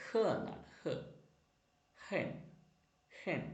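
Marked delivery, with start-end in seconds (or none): 0.1-0.2 "h" as a short "huh"; letter sound h. Shown as a demonstration. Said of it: "letter pronounce ചെയ്യുന്നത്". 0.8-1.0 "h" as a short "huh"; letter sound h. Shown as a demonstration. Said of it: "letter pronounce ചെയ്യുന്നത്".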